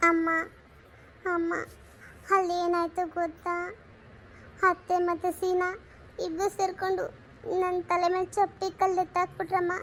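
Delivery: tearful. Acted. Daughter tells mother she was deceived, softly tearful. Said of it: "ಯಾಕೆ ಹಿಂಗ್ ಅಳ್ತಿದ್ಯಾ?".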